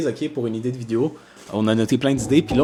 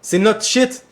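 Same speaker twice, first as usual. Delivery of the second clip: mock angry rant; 7 semitones higher, 4 dB louder than usual. Mock rant at viewers' ideas.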